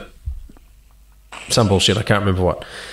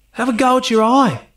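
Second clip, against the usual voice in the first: altered ad-lib line; 11 semitones higher than usual. Retold or imitated. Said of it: "he changed it every time".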